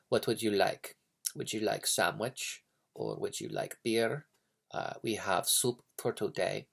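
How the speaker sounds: understated, reserved Russian waiter; taciturn waiter. Acted. Russian waiter serving a restaurant customer, taciturn. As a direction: take the order with little expression. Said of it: "very, like, taciturn".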